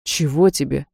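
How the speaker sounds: low, curt and unfriendly. Acted. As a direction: brush her off coldly. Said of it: "недружелюбно отозвался Вилтон".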